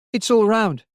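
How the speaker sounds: put-on high, hesitant, frightened child's voice; small child upset and afraid; whimpering child. A narrator's reading. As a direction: whimper it in halting phrases.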